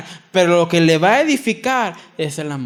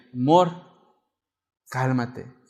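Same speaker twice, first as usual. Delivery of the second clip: gentle calming; 5 semitones lower, 3 dB quieter, slower than usual. Retold or imitated. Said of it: "párame y dime".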